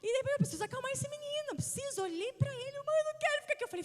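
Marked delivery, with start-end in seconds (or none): 0.3-2.0 anxious thought. Retold or imitated. Mother's anxious inner voice. 2.8-3.6 put-on high whiny child voice; whining child. Mother imitating her son's plea in hospital, whiny high.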